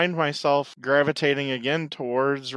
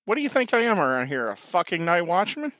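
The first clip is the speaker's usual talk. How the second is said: fast, higher, gruff tough-guy voice; gruff movie character quote; 4 semitones higher than usual. Acted. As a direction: spit it out like a hardboiled PI. Movie quote, Busey line.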